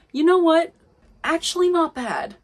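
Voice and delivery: sudden loud, high exclamation; excited outburst. Real, not acted. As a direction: blurt it out, thrilled.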